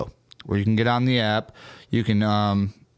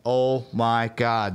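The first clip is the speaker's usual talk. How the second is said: slow stunned oh my god; much slower than usual. Retold or imitated. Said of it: "And I'm like".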